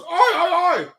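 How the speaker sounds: high shouted oi oi oi; rowdy crowd answering the call; crowd reply. Retold or imitated. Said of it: "everybody goes".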